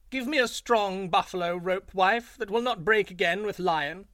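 high, loud, showy jackal call. A narrator's reading. Jackal calls loudly to his wife so Lion hears, high and showy. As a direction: make sure Lion overhears the fake order. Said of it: "shouting aloud again".

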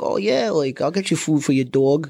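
joking Jersey vowels; Jersey accent. Acted. Joking with a date, mock Jersey accent. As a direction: tease lightly in a Jersey accent. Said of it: "she has a Jersey accent".

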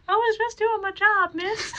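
high, teary little plea; whimpering cop. Retold or imitated. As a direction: plead like a scolded junior cop. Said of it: "is just like".

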